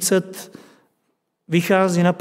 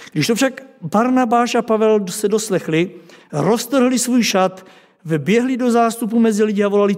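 reading Acts aloud in a raised, lively storytelling voice; scripture reading; 2 semitones higher than usual. Acted. Preacher reading scripture to the congregation, raised and vivid. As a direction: tell the Lystra story to the congregation, lifted and vivid.

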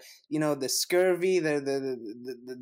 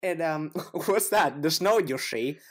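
mock Canadian gangster. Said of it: "Is that a gangster".

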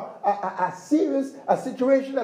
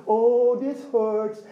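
mock whining; 2 semitones lower, much slower than usual. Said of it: "wail and cry and complain".

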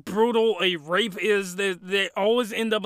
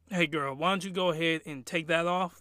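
seductive boss voice; 4 semitones lower, 8 dB quieter than usual. Retold or imitated. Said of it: "It's like".

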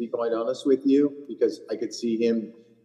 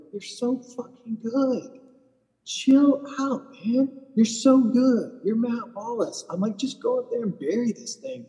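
much higher, slow encouraging voice; pep talk; 11 semitones higher, slower than usual. Retold or imitated. Caddy encouraging the frustrated golfer with a pep talk. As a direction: pump him up gently. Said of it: "I go".

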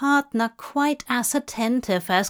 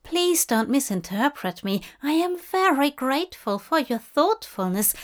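higher, fussy nervous gentleman; nervous Aziraphale; 4 semitones higher than usual. Acted. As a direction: raise the voice, flustered and polite.

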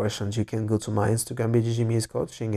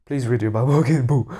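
laughing tease; 5 dB louder than usual. Real, not acted. Teasing the listener.

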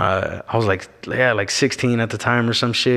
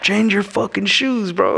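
higher, slow, outraged sister-in-law; imitating sister-in-law; 9 semitones higher, slower than usual. Sister-in-law rushing out at him over red shoes, higher mock scold.

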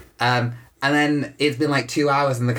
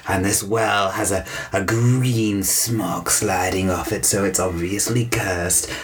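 spooky storytelling. Acted.

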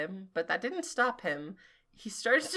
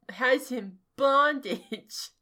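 BONDAGE drawn out slowly; drawn-out emphasis; 3 semitones higher, slower than usual. Acted. Reader hamming up a misspelt fanfic line, drawn-out emphasis. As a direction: lean slowly on the word bondage.

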